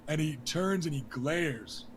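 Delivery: ordinary talk, nothing marked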